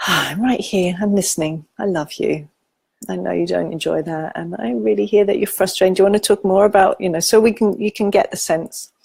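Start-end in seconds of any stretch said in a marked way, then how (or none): 0.1-7.0 tender inner voice offering to listen; compassionate inner voice. Acted. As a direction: hold the frustrated self kindly. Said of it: "my inner compassionate voice".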